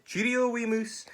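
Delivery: high-pitched nervous goodbye; alarmed farewell. Acted. Snake fleeing the gruffalo, high alarmed farewell. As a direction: call goodbye in a fright.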